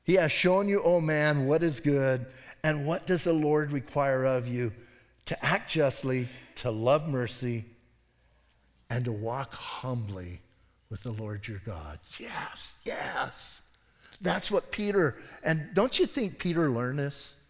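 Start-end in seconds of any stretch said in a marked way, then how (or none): 0.0-12.0 scripture reading. Acted. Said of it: "Micah six eight says this". 12.2-13.6 softly breathed affirmation; whispered yes. Real, not acted. Affirms the verse.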